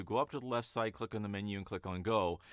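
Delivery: fast, no gaps between steps; hurried explainer read; rushed instructions. Shown as a demonstration. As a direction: rattle the steps off too quickly. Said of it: "as opposed to".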